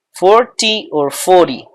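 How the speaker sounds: Forty with clear t, then forty with a flapped r-like t; both forty versions. Shown as a demonstration. Teacher sets the two forty pronunciations side by side. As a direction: contrast Forty crisp and forty tapped. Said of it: "or you can say forty".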